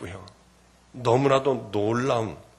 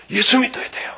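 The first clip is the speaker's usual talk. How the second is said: 1 urgent call; 9 semitones higher, 4 dB louder than usual. Retold or imitated. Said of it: "막 소리 지르고 전도를 했어요".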